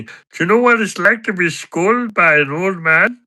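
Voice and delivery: high, loud, stammering character rant; Patter. Acted. Character tells mate about a confrontation, aggrieved high impression. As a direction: build from halting recall to a high, swooping grievance. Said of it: "I can do an impression of Patter".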